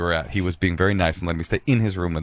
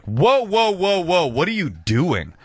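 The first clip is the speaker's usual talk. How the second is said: startled rebuff; 9 semitones higher, much slower than usual. Retold or imitated. The girl rebuffing his kiss, in mock alarm. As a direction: imitate her pulling back in alarm. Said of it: "And she's like".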